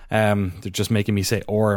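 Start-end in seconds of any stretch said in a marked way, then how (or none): 1.5-1.7 a quick Irish-accented or. Shown as a demonstration. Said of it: "in my weird Irish accent".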